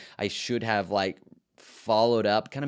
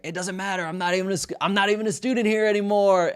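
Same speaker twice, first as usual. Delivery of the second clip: put-on much higher, rising to loud, snotty teen comeback; defiant retort; 11 semitones higher, 5 dB louder than usual. Student defying the teacher while crossing the street, high and loud. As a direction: fling it back over your shoulder as you walk off.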